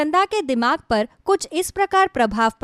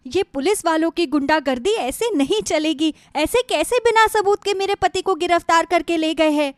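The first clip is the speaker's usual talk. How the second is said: higher-pitched, mildly indignant complaint; indignant protest; 5 semitones higher than usual. Acted. Wife objecting to police taking her husband, mildly indignant. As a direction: protest the injustice in a raised pitch.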